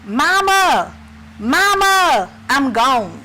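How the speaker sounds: lightly voiced, a dying man calling out for his mother; dying man's plea. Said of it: "when I heard that man say".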